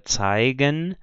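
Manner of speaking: zeigen with a hard G after the ai; G sound. Shown as a demonstration. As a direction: say zeigen with G as in go, never CH. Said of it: "é o som de G".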